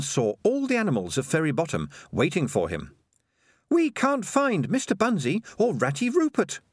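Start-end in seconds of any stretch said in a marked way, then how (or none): 3.7-6.6 put-on very high, childlike storybook wail; storybook cry. A narrator's reading. Animals to Farmer Fred at his door, high-pitched cry. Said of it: "they cried".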